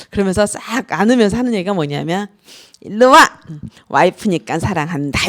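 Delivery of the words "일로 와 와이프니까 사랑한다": husband's words. Retold or imitated. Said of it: "이렇게 얘기를 해요".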